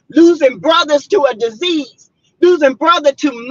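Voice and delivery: near tears, pushing the words out; real crying while ranting; tearful outburst. Real, not acted. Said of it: "I don't mean to get cry".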